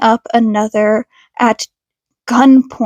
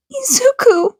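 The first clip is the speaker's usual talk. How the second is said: controlled anger; 11 semitones higher than usual. Acted. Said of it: "trying to control her anger".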